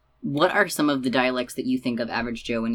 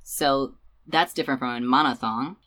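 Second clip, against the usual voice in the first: ordinary talk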